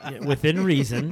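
said through a laugh; chuckling as they say it. Real, not acted. Laughing caveat, then repeated plainly.

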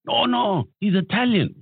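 high-pitched mock announcement to colleagues; retold dismayed waiter. Waiter corrects his fellow waiters after a bet, mock dismay. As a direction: exclaim it high, imitating the waiter.

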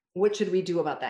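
"What should we do about that?" with the weight on "we"; a calm question that stresses "we". Shown as a demonstration. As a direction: lean on "we" to make it shared. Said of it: "I have a whole chapter on the power of we".

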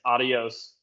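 halting phrasebook Spanish "Adios"; bad Spanish. Shown as a demonstration. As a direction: tourist saying "Adios" in clumsy Spanish. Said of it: "sorry for my bad Spanish".

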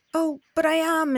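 high, pleading insistence; insisting. Acted. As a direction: push back, high and earnest. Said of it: "insisted Bat".

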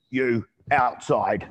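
very slow, heavy two-word command; blunt giant's order. Retold or imitated. Big miner ordering the trainer outside, slow and heavy. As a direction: lumber the words out like a giant.

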